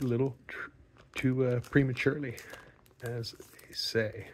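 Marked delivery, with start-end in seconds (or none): 3.0-4.3 whispered aside. Real, not acted. Cheeky aside about innuendo.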